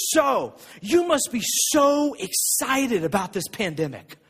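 slow, lightly voiced friend; friend Josh quoted. Pastor quoting his friend Josh on the phone, slow and teasing. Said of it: "he goes".

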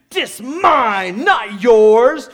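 put-on a toddler reclaiming her artwork from dad; possessive toddler. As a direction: mark your territory like a small child. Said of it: "She goes".

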